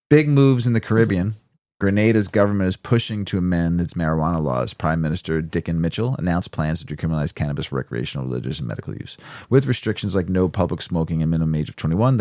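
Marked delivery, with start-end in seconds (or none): 0.1-7.3 upbeat newscaster read; news read. Acted. Reads cannabis news segment.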